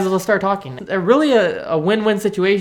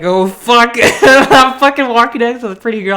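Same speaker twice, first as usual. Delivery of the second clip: laughing giddily; 4 semitones higher, 6 dB louder than usual. Real, not acted. Giddy about walking with girl.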